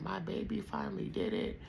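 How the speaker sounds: a hint of the doting auntie; imitating proud auntie. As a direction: tenderly echo the aunt's praise. Retelling auntie's proud words.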